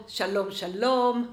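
fast, brisk שלום, שלום rattled off; quick run-through of שלום, שלום; quick repeat. Shown as a demonstration.

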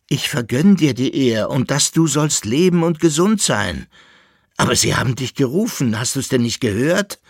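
high, loud lamenting; wailing and sobbing. A narrator's reading. Koppelbär laments that his friend was called, wailing. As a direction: wail at him in distress. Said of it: "jammerte und schluchzte der Koppelbär".

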